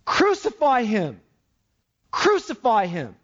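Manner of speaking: chant-like demand, lightly acting the mob; mock crowd yell. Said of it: "they all yelled out".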